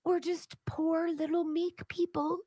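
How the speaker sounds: high, slow, pleading mock whimper; sarcastic impersonation of a self-pitying group; mocking whiny victim voice. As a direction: parody a pitiful plea, drawn out and trembling into a whisper. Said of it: "the Somalians are not very happy".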